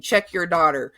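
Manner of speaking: mock angry yell at the stepmother; retold yelling. Mom yelling at dad's wife on the phone, angry. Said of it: "my mom yelling and yelling at her".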